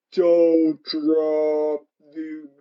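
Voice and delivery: stretched out in mock slow motion. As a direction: drag every word as if time stopped. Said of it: "slow motion".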